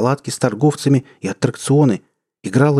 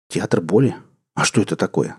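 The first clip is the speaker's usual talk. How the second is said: puzzled; 3 semitones lower than usual. Acted. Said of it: "спросил я".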